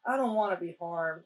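mildly voiced kindly request; calm and kind. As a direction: say it gently and earnestly, imitating him. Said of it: "very calmly and very kindly".

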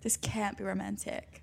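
mock whisper. To listeners, the catchphrase as a mock whisper.

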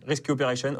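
English menu item in a French accent. Real, not acted. Hacker reading the device menu, French-accented English. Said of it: "On adore ton accent anglais".

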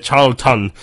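badly faked northern English accent, slow. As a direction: mimic a Barnsley barmaid's northern accent, drawn out. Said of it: "that's a terrible accent".

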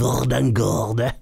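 slow burred smoker voice; mocking drawl with burred Rs; throaty smoker impression. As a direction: scrape the question out slowly from the throat. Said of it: "han snakket med sånn skare her".

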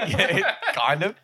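laughing through the words; giggling while answering. Real, not acted. Laughing at friend eating chips.

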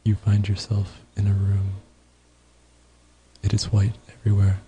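calm meditation guide voice; guided meditation. Pretend. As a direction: lead a mock meditation. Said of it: "Should we do some guided meditation?".

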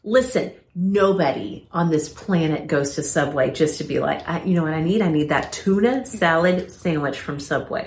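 passionate rant. Real, not acted. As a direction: hammer the point home to everyone.

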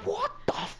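high, baffled half-finished exclamation; retold bewilderment. He looks round the car park, retelling high bewilderment.

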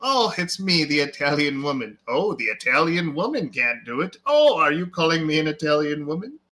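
swooping exaggerated "Oh" on each mock line; mock trailer dialogue. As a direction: parody of hammy movie exchanges. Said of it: "another guy would come up and be like".

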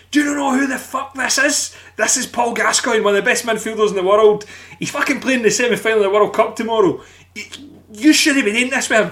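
shouting at the Americans to back off; angry retort. Retold or imitated. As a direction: tear a strip off them. Bodyguard scolding the American boys.

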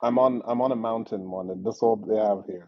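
distant, as if across the room; far from mic. Real, not acted. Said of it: "You sound very far".

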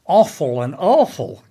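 "offal" and "awful" given the same vowel; American merged vowel in "offal" and "awful"; vowel merger. Shown as a demonstration. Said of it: "can be homonyms".

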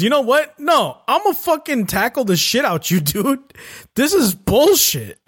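hammed-up Pickle snapping and charging in; mock angry outburst. Pickle fed up with his opponent, mock yelling. Pickle acted deciding to attack.

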